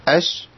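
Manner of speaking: أش with the sh forced on past its end; أش with an added hiss; overlong sh. Shown as a demonstration. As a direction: push extra air into the sh of أش. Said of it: "ما أقولش أش".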